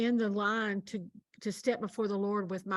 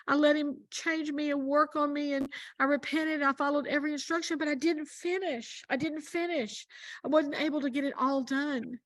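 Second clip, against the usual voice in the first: mournful confession; 5 semitones higher than usual. Retold or imitated. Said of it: "She goes".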